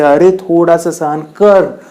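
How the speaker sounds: slow, drawn-out urging; lightly acted patient persuasion; coaxing explanation. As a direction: reason with a reluctant listener, slowly. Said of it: "वो समझाता है उसे".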